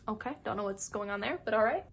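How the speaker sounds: softly voiced puzzled reaction; quiet, uncertain acceptance; confused. Jackie reacting to the scrimmage, mildly confused. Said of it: "Jackie's kind of confused".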